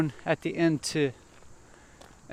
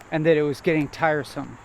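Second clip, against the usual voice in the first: tiresome with a firm falling end, like a full stop; falling statement end; 4 dB louder than usual. Shown as a demonstration. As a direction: land tiresome down, no upward lift. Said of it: "when I said tiresome, that didn't happen. I didn't go up at the end".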